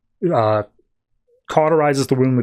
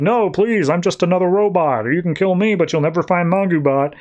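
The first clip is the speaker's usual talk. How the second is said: higher, pleading mock villain voice; 5 semitones higher than usual. Villain begs the hero for mercy, in a higher mock plea. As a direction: play the cornered villain begging, pitched up. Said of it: "Mangubat's like".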